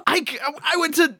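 high laughing disbelief. Real, not acted. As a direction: laugh through the words. Laughing disbelief at hitting fastballs.

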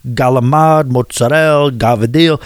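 galamad and gavadil with hard g, final vowels dropped; galamad, mozzarella, gavadil, each cut short at the end; Italian-American pronunciation. Shown as a demonstration. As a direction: list galamad, mozzarella, gavadil Staten Island style. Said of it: "doesn't roll off your tongue".

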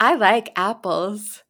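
slow, laughing CD narrator; language CD voice. Retold or imitated. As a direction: read it like a learning CD, slowly. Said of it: "it would be like".

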